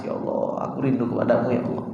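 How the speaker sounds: soft, low, hushed plea to God; imitating a tearful prayer, very quietly; tearful longing, acted. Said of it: "Pernah nggak nangis".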